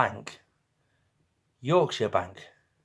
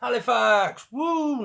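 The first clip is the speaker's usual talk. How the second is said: excited; 11 semitones higher, slower than usual. Real, not acted. Viewer guesses right town.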